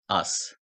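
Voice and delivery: "as" with the written Z devoiced to S; final Z as S. Shown as a demonstration. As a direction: end "as" on a hissed S, no voicing. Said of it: "S gibi okunması gerektiğini".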